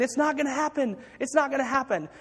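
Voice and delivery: acted doubters' complaint; complaining. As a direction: imitate naysayers repeating their gripe. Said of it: "all the complaining around him".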